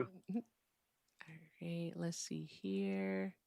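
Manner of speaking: slow hushed whisper to herself. Real, not acted. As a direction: breathe it out under the breath. Muttering to herself off-mic.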